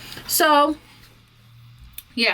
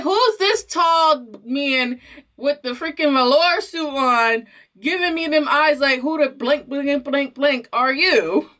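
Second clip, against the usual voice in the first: indignant inner rant; 7 semitones higher than usual. Retold or imitated. Indignant thoughts about the brother.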